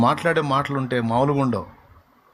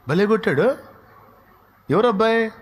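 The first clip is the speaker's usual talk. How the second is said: ordinary delivery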